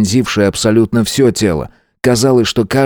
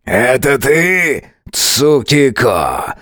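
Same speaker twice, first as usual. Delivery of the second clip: slow hoarse rasp, pitched higher; 4 semitones higher, much slower than usual. A narrator's reading. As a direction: drag out the name in a raspy croak. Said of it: "прохрипел ближайший ко мне".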